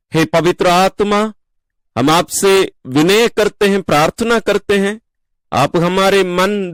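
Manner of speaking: earnest prayer in measured phrases; spoken prayer. Real, not acted. Worship leader thanking the merciful Father, praying aloud. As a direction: address God directly, pausing after each petition.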